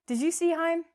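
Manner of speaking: "Heim" for him, rhyming with time, high and loud; wrong long vowel. Shown as a demonstration. Teacher mocking the mistake in a sentence, "Heim" with long I. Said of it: "I can't even say this".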